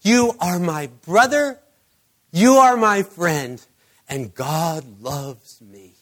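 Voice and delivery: clear, deliberate speech. Retold or imitated. Healed man into his friend's ear, slow clear speech. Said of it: "he said in the clearest English".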